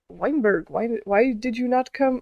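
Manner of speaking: lightly attempted German officer accent; hint of a put-on German accent; weird German accent. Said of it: "this is a weird accent".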